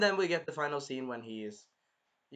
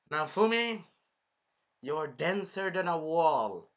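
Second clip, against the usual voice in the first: exasperated scolding; 3 semitones higher, 3 dB louder, slower than usual. Acted. Viewer scolding the clueless hero Naofumi, exasperated. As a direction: chide him slowly, stretching the words.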